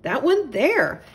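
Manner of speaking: a prim owl politely insisting all is fine; high, fluttery owl; fussy little owl. A narrator's reading.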